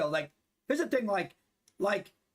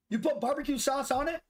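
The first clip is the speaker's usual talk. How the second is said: "put" pitched higher, ending on a rising question; disbelieving question; 4 semitones higher than usual. Real, not acted. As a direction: repeat it back in surprised disbelief, "put" up high.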